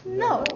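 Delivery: NO starting high and falling sharply; emphatic rejection. Shown as a demonstration. Teacher shows falling tone, emphatic rejection. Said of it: "That's falling".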